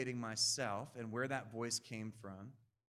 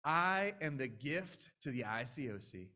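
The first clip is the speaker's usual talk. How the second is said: self-important thought. Retold or imitated. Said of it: "I've had thoughts like".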